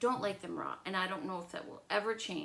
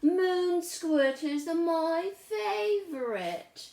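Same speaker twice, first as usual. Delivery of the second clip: Lola's sweet reply; 10 semitones higher, 6 dB louder, much slower than usual. Acted. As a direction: play sweetly innocent. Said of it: "She said".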